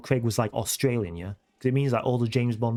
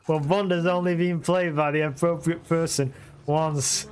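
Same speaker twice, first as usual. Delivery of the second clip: laughing; 3 semitones higher than usual. Real, not acted. Teasing claim while laughing.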